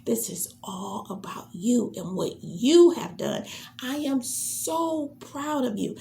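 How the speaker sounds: a hint of a presenter overflowing with praise; gushing presenter. Shown as a demonstration. Presenter thanking the host, lightly voiced and gushing. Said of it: "The person is gonna come in and say".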